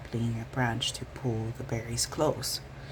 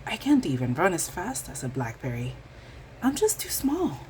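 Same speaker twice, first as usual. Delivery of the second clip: frustrated huff; 5 semitones higher than usual. Acted. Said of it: "Mouse huffed".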